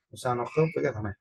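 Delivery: ordinary talk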